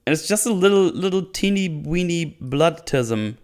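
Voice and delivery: mocking belittlement. Real, not acted. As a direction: make it sound laughably tiny. Belittles the tiny wound.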